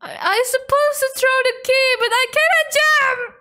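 high, fast exasperated protest; frustrated. Real, not acted. Gamer explaining the failed jump, high frustrated whine.

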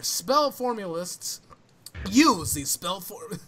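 slow, mildly hammed-up flamboyant read. First go at a tongue-twisting summary, mock flamboyant. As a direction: stretch the words out with mock grandeur. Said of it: "flamboyant voice".

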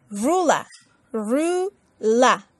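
ruler in a London accent, final r dropped as rula; British accent. Shown as a demonstration. Teacher contrasting London and American ruler. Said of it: "inglés de Reino Unido, londinense".

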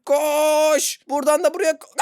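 hurry, it's urgent; tense rising urgency. Real, not acted. Panicked rush before scream.

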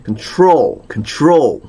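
"control", stress on the second syllable; stress on TROL. Shown as a demonstration. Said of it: "이음절이 가서 있네".

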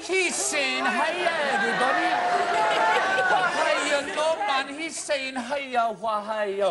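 high, hammed-up Geordie echo; mock Geordie. Host echoing puppet's greeting, mock Geordie accent. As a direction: parrot it loudly in exaggerated Geordie.

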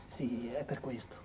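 sussurro lento e arreso; confessione sussurrata. Acted. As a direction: ammettilo piano, senza fiato. Figlio confessa alla madre. (sussurro lento e arreso)

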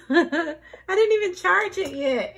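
laughing through the words. Real, not acted. Admitting she never charged it, laughing. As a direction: giggle at yourself.

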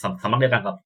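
usual speaking voice

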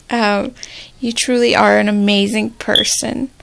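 real choked-up gratitude to a sister; teary thanks. Real, not acted. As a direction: hold back tears while thanking her. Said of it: "I'm gonna cry".

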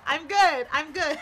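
breathless giggly relief; laughing. Real, not acted. Laughing after celebration.

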